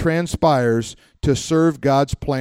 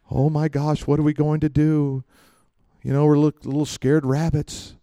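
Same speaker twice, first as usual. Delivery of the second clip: mock scared believers. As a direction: whimper it like a scared rabbit. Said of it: "We're all scared".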